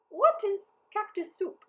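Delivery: high, wondering question; curious mayor. A narrator's reading. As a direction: ask with wide-eyed curiosity. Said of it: "the mayor asked".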